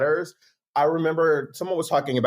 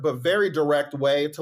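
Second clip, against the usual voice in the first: ordinary talk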